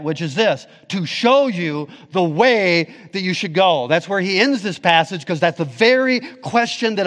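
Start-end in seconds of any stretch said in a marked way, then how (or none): 0.9-3.9 deliberate emphasis on "show you the way"; emphatic highlighting. Shown as a demonstration. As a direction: preach it with weight on "show", "way" and "go". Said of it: "Therefore, highlighting the middle part".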